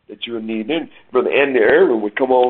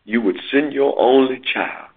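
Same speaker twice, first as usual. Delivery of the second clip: spoken prayer. Real, not acted. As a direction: pray for the listeners with reverence. Leads a closing prayer.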